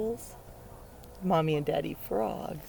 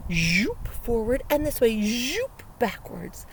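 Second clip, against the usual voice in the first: zooming; 2 semitones higher, 4 dB louder than usual. Shown as a demonstration. Demonstrates dragonfly flight.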